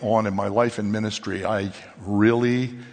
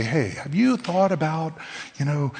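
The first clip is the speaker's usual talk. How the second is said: lightly voiced sugary gossip; fake-sweet gossip; 5 semitones higher than usual. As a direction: play the sweetly worried gossip. Mock gossip voice.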